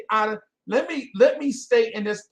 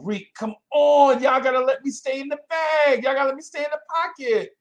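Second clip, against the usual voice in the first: higher and louder, pleading with the chat; laughing plea; 9 semitones higher, 5 dB louder than usual. Real, not acted. Host begging the chat to let him finish, high pleading. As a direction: beg them to let you keep going.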